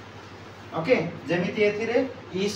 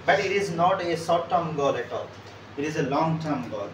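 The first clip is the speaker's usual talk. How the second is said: slow emphatic correction; 2 semitones lower, much slower than usual. Shown as a demonstration. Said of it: "teacher stresses correction".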